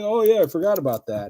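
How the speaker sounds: high, loud mock-amused quote; imitating amused laughter. Retelling an interviewee's amused reaction, imitating someone dying laughing. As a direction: raise it high, as if cracking up. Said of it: "he's just dying laughing".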